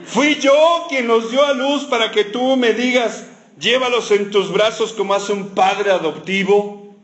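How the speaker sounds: high, slow, grievance fading down; martyr's lament; lightly voiced whining mom; complaining mother. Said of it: "Como cualquier mamá quejándose".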